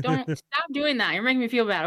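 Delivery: high-pitched mock-upset plea; lightly hammed-up guilty protest; playful protest. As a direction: whine a little, pretending to be hurt.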